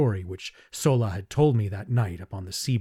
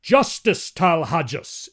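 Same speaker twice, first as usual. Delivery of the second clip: high, loud exclamation; an elder protesting to the Jedak; exclaimed; 6 semitones higher, 5 dB louder, slower than usual. Acted. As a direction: cry out for justice. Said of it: "exclaimed Lorcas Potomo".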